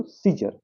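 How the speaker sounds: सीजर starting on a single s; silent c. Shown as a demonstration. Teacher answering how to read it, silent c in सीजर. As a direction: begin सीजर with one plain s. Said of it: "क्या पढ़ेंगे इसको".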